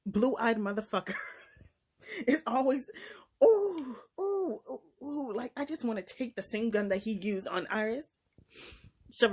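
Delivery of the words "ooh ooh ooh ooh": high wordless cry of outrage; high "ooh" dropping in volume; outraged "ooh". Real, not acted. Vlogger reacting to a villain, outraged oohs.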